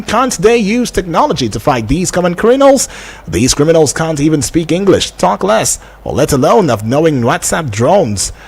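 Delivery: presenter reading a text message; reading listener message aloud. Real, not acted. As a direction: read a listener's question out on air.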